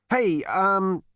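high, hesitant hailing; stammering. A narrator's reading. Zaphod hailing the unseen voice, stammering. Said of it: "he stammered".

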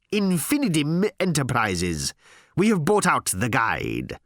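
slow, emphatic corporate proclamation; grandly deliberate executive; pompous announcement. Acted. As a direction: announce the takeover with weight. Harl proclaims the takeover.

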